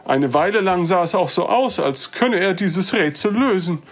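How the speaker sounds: put-on older gentleman. Old visitor explains to the dwarf who sent him, earnest. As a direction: recount the failed attempts. Hellwig recounts his search.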